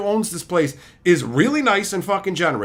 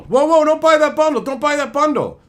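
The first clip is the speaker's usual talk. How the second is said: urgent warning; 6 semitones higher, 5 dB louder than usual. Retold or imitated. Customer warns buyer at counter.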